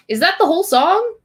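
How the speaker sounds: high, loud disbelieving question; incredulous question. Real, not acted. Reader reaching the end of bizarre lyrics, incredulous. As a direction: ask it in startled disbelief, rising at the end.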